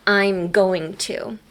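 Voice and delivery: "I'm going to" said slowly, each word given; teacher spelling out the long form for learners, slowly; slow full form. Shown as a demonstration. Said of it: "Gonna is short for".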